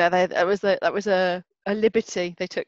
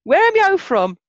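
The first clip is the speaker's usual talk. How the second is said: mimicking a Black Country local, higher and louder; Black Country accent; 12 semitones higher, 6 dB louder than usual. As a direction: echo the Black Country way of asking where you're from. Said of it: "people used to say to me".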